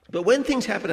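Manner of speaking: preacher punching the word when; 1 emphatic preaching. Real, not acted.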